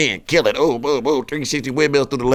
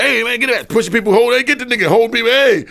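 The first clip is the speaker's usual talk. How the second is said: panicked yelling; 10 semitones higher than usual. Retold or imitated. Panic as knife man chases.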